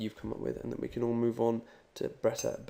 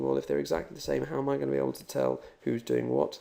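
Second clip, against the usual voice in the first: imitated student; 2 semitones higher, faster than usual. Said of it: "you're probably thinking".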